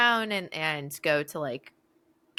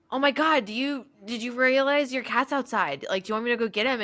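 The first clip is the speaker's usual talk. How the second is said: higher, urgent mock alarm; retold alarm; 6 semitones higher than usual. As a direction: re-enact alerting a friend to trouble. Alarmed warning to friend, retold.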